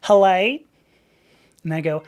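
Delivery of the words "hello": loud, rising Southern phone greeting; Georgia front-desk accent. Retold or imitated. Receptionist answering the agency phone, loud Southern accent. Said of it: "a call with them sounded like this".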